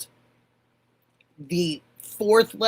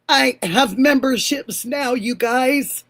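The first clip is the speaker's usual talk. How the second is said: higher and louder, bursting with the news; giddy announcement; excited news; 3 semitones higher, 5 dB louder than usual. Real, not acted. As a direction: share the big news with your viewers. Announcing new memberships to viewers.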